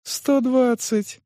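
high, slow astonished echo; sincere surprise. A narrator's reading. Manager echoes the price paid, surprised. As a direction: repeat the sum in honest amazement. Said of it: "искренне удивился Крутец".

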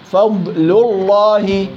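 فضل الله with a light ل in فضل, then a full heavy ل in الله; slow Quran demo, heavy lam in الله; heavy Allah. Shown as a demonstration. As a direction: sound فضل thin, then darken الله fully. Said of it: "يجب أن يظهر تفخيم لفظ الجلالة".

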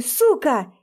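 angry curse. Acted. Kicks locked door.

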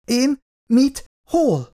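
hirtelen, sokkal magasabban, riadtan; kapkodó, ijedt kérdések; startled. A narrator's reading. Startled youth questioned. (meglepett, riadt kérdések)

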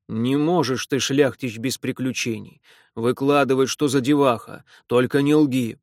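loud, gruff demanding official. Acted. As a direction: bark it like a stern old official. Repnin's gruff voice. (громкий грубоватый чиновник)

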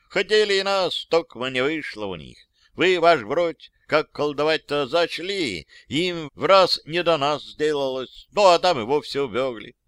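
lightly voiced folksy old soldier. Old soldier reporting to his officer, folksy and lively. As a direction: tell it like a simple old private.

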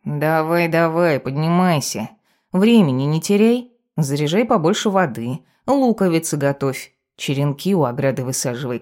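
bossy little cat chivvying the owner; a touch of a scolding familiar; lightly voiced nagging cat familiar. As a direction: nag briskly, lightly in character. Cat familiar nags witch awake.

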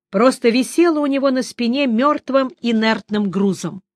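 ordinary delivery

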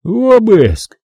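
slow booming order from the giant; the doorman orders guns on the table; rumbling monster. Acted. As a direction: rumble it like distant thunder. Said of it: "объявило оно".

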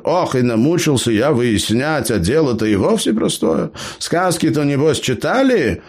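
put-on high-pitched cheeky old gnome. A narrator's reading. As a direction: play the crafty gnome, pitched well up. Gnome Eber speaks.

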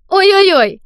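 high, loud mock wail. Don fake-wails to draw the manager's attention, loud. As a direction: wail out like a tattling child. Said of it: "громко завопил он".

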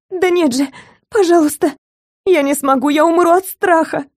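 high, desperate begging; terrified pleading. A narrator's reading. Captive begging kidnapper not to tie explosives on her, terrified. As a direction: beg for mercy, near hysteria.

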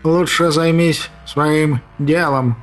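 slow, icy witch voice. Acted. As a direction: freeze him with one word. Witch orders the cat.

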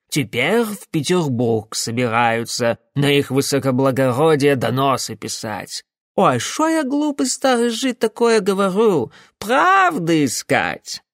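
a hint of a sly old man mocking; sly old tailor, mock-pompous; lightly voiced old tailor. Старый Яков насмешливо рассказывает Карпасу, лёгкий голос старика.

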